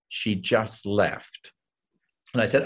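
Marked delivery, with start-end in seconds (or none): 0.1-1.5 enigmatic line. Retold or imitated. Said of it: "just look off and say".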